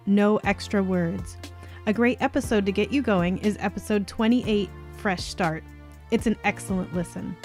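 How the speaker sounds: measured, clearly articulated host read; scripted podcast outro. Acted. Host thanks listeners for listening, scripted outro read. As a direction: read the sign-off evenly, with small pauses between items.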